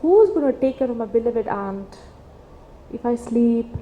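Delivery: gently imitating a devoted nephew; very loving. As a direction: retell it tenderly, with mild affection. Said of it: "and very lovingly".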